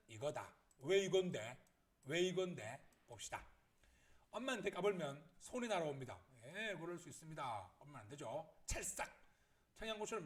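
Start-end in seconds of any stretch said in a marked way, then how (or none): 0.8-2.8 much louder, punched question; insistent questioning. Acted. Teacher challenging a student's metaphor, insistent questioning. 8.6-9.1 sharp, sudden smack noise; imitated slap. Mom's hand flying at child, imitated slap.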